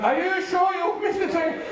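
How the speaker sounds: high-pitched little brother asking; double-check with big brother in a high voice; hesitant checking. Retold or imitated. Nervous younger brother double-checks.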